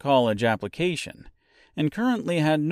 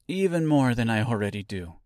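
talking through cookie dough; mouth full. Acted. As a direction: speak round a mouthful. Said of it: "with a mouthful of dough".

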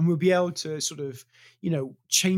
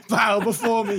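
booming mock god decree; commanding, higher and louder; dark lord; 8 semitones higher, 8 dB louder than usual. Mock god declaring to subjects.

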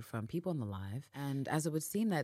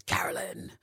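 a dark whispered growl on the name. Retold or imitated. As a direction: breathe the name out like a low threat. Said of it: "with, like, a dark Eve rising growl".

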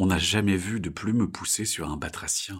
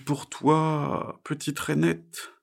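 higher, drawn-out bird voice; slow, raised voice for a storybook bird; owl character; 7 semitones higher, much slower than usual. Acted. Bird greets the little tree frog, in character.

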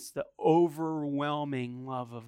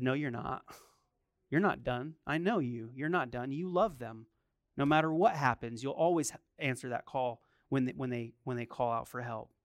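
calm wife; 4 semitones lower, 4 dB quieter than usual. Retold or imitated. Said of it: "She said".

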